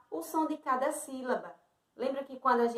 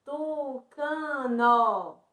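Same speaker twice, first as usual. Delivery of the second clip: TUCANO very slow, each syllable held: TU-CA-NO; pronounced without hurry; much slower than usual. Shown as a demonstration. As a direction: take your time through every syllable of TUCANO. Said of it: "Sem pressa".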